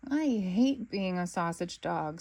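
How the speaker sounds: slow, mournful moan. Acted. Snickers moaning to Bluey about being long, slow and sulky. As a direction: drag it out like a sulking puppy. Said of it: "Snickers moans".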